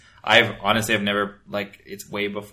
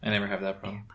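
breathy deadpan whisper; whispered aside; 5 dB quieter, much faster than usual. Real, not acted. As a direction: whisper it as a dry joke.

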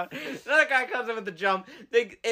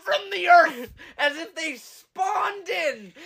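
laughing; 8 semitones higher than usual. Real, not acted. Laughing through the telling.

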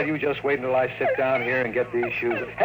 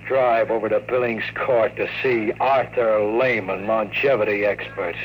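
noir story narration. A narrator's reading. Detective narrating his evening to the listener, measured noir narration. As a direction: tell it like a hard-boiled detective looking back.

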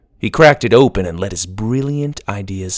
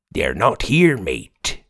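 pirate voice; slower than usual. Acted. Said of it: "the book said".

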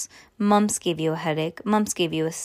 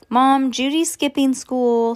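higher, louder tattling call to mom; little brother yelling; 6 semitones higher, 6 dB louder than usual. Acted. Little brother Stink telling Mom on Judy, tattling yell. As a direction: shout it down the hall to tell on her. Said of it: "Stink yelled".

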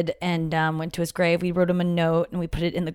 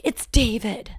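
hushed, breathy whisper; 5 semitones higher, slower than usual. Retold or imitated. Retold hushed moment at grave.

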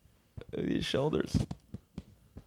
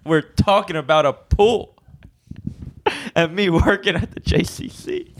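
higher, louder, slow mocking; mock exasperation; 8 semitones higher, 3 dB louder, slower than usual. Real, not acted. Mocks friend who misunderstood, slow and higher. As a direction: drag it out at the dope.

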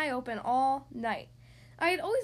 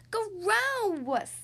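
grossed out; 8 semitones higher, 4 dB louder than usual. Acted. Child tastes bad candy cane.

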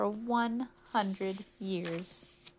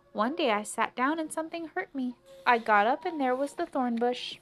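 raised, emphatic telling; aggrieved old lady; 5 semitones higher, 4 dB louder than usual. Acted. Old lady tells the policeman what happened, aggrieved. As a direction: recount the mishap in a higher voice.

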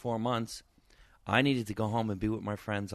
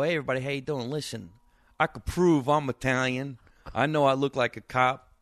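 loud, higher, punchy comedy-club opener to the bar crowd; working the room on an open mic; stand-up opener; 3 semitones higher, 4 dB louder than usual. Retold or imitated. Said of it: "I grabbed the microphone, and I go".

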